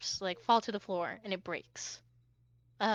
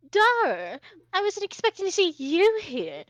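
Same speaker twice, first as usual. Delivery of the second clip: higher-pitched haughty character voice; feigned surprise; 7 semitones higher, 4 dB louder than usual. Acted. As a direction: act grandly surprised to meet a rival. Greeting a rival in character.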